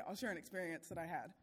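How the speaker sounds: usual speaking voice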